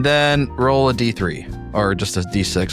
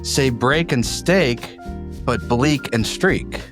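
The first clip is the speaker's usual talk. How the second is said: reciting a poem aloud; poem reading. Acted. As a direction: read the verse with a lilt.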